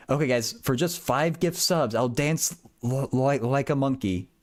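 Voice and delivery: mock-plug it to the viewers, drawing out the ending; streamer pitch. Streamer joking about begging for gift subs, mock sales pitch. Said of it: "the true streamer thing would be".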